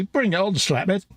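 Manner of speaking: a hint of the defiant wife, tossed off lightly; cheeky challenge. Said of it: "Her immediate response would be".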